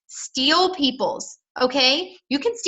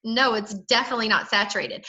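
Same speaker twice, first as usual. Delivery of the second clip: incredulous; 3 semitones lower than usual. Shown as a demonstration. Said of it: "That's how I talk".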